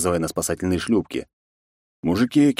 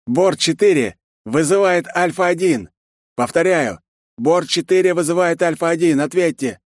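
radio call; 11 semitones higher, 4 dB louder than usual. A narrator's reading. Cruiser calling over the radio.

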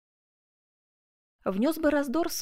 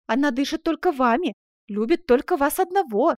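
higher and louder, near tears; tearful reproach; 6 semitones higher, 6 dB louder than usual. A narrator's reading. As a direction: pour out her hurt through tears. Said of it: "залилась слезами". (со слезами, выше и громче)

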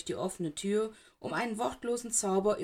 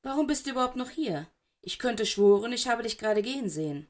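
angry; 3 semitones higher, 4 dB louder than usual. Acted. Black confronts Snape in hallway.

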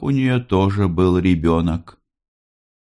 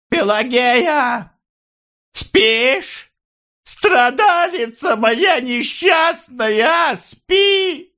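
put-on very high, slow drunken cry; drunken shouting; much slower than usual. A narrator's reading. Maria drunkenly shouting to the mother under the window. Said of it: "пьяным голосом кричала".

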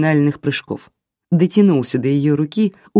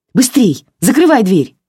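high, loud urgent shout; 7 semitones higher, 5 dB louder than usual. A narrator's reading. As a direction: yell to hurry, slamming the door. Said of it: "крикнула". (Таня кричит мальчику, торопя)

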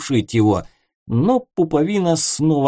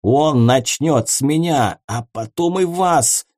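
frightened mumbling; 3 semitones higher than usual. Acted. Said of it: "забормотал Ворон".

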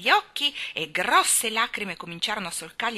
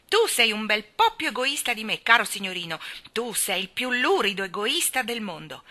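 loud, higher indignant scolding; angry retort; 4 semitones higher, 6 dB louder than usual. Acted. Mary turns the accusation on Colin, angry. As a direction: throw the insult right back.

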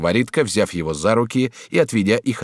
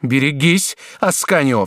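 higher, sharp warning; warning cry; 7 semitones higher, 4 dB louder than usual. A narrator's reading. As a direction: threaten him with a cry. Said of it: "вскричала герцогиня". (герцогиня грозно вскрикивает)

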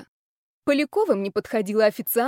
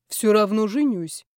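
lightly voiced stubborn boss. Boss stubbornly vows marriage.

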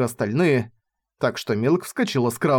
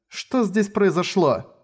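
high, slow, stunned question; slow, higher voice, aghast; asking the darkness; 6 semitones higher, slower than usual. Acted. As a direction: ask the empty dark in disbelief. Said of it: "она спросила эту безграничную тьму".

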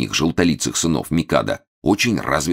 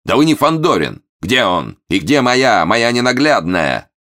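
high, theatrical demand; indignant outcry; 7 semitones higher, 5 dB louder than usual. A narrator's reading. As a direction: cry out like a distraught husband. Momus acts outraged husband again. (возмущённо и надрывно вопрошает)

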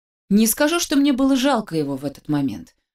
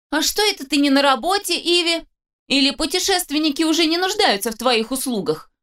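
higher, sneering jibe; young man taunting a girl, higher and sneering; mocking taunt; 8 semitones higher than usual. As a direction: needle her with a sneer. Charles mocking her.

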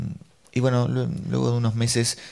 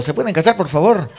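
high, loud mock-distressed voice; anguished plea; 6 semitones higher, 7 dB louder than usual. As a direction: plead as an exasperated woman, hammed up. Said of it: "una mujer con voz angustiosa preguntó". (súplica angustiosa imitada, voz aguda)

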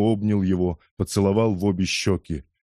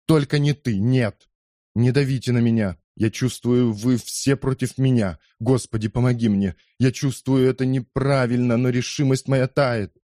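raised, pleading and cornered; desperate protest; 4 semitones higher than usual. Acted. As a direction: push back in rising desperation. Кетчу feels pressured, protests. (загнанный, отчаянный протест)

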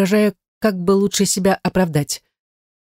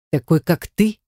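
unkind snort. A narrator's reading. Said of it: "хмыкнул он недобро".

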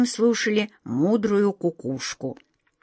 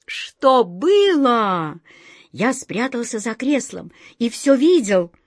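put-on mischievous servant boy; 4 semitones higher, slower than usual. Pobegushka laughing tells.

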